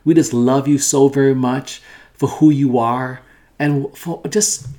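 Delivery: earnest, pleading prayer voice, swelling in places; fervent prayer. Acted. Pastor praying over listeners and viewers, fervent prayer. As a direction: pray it out, calling on God.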